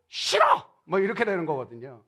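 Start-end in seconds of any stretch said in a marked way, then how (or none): 0.1-0.7 high-pitched mock protest; emphatic refusal. Spouse refusing to read three Bible chapters, mock-indignant. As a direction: shoot the idea down in a sudden high voice.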